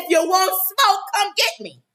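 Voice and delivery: half-strength hollered taunt; mock yell. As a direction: call out a mock dare to fight. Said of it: "yelling up at the window".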